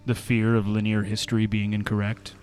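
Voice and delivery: slow, solemn segment read over music; reflective reading. Acted. Rereads the reflection.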